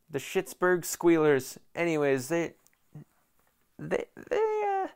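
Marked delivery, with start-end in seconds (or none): 0.1-1.6 mocking. Real, not acted. Mocking rival team name, drawn out.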